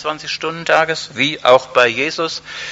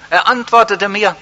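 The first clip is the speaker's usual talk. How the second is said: "Er antwortete mir" lifted higher and louder, stress on antwortete; joyful emphatic repeat; 7 semitones higher, 4 dB louder than usual. Shown as a demonstration. Preacher repeating the verse to the congregation, joyfully emphatic. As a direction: repeat it with rising joy. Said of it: "und er antwortete mir".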